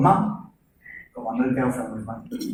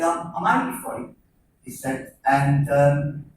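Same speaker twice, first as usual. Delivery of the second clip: hushed confiding; 6 dB quieter than usual. Retold or imitated. Neighbour confides in hushed tones.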